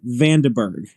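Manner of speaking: "Vandenberg" as Van-duh-berg, falling at the end; settled pronunciation. Shown as a demonstration. Presenter confirming how we're gonna do that, settled pronunciation. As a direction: say "Vandenberg" with an uh in the middle. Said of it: "that's how we're gonna do that".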